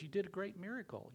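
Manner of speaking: amazed congratulation; a fellow knight in wonder; marvelling. Retold or imitated. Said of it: "lays his hand on him and says".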